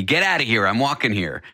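half-hearted New York sidewalk yell; retold scream. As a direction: imitate an irate stranger without really shouting. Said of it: "they're screaming at me".

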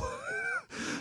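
a quick squeal of laughter; short high giggle; high squeaky laugh. Real, not acted. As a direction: crack up at your own bad Italian. Laughs at own fake Italian.

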